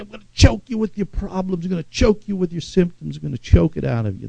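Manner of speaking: quiet, fast menacing devil voice; a lightly voiced choking spirit; voicing the devil. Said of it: "spirit of Anak comes in".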